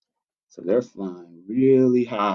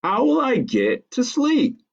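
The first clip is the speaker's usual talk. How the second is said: Ava protesting; 12 semitones higher than usual. Acted. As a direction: draw out the child's dismay. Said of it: "said Ava".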